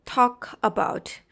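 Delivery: "talk about" slowly, word by word; slow "talk", then a separate "about"; separated words. Shown as a demonstration. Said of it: "Like here".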